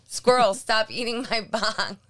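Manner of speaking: loud, slow mock yell at a pet; imitated shout. Co-host mimics Joe shouting at the cat, mock shout. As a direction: imitate someone scolding the cat. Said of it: "so Joe just shouts".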